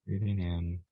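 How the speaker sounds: calm, measured meditation voice with long pauses; unhurried, even-toned relaxation guide; guided meditation. Acted. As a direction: guide them gently through breath and body, leaving space between phrases.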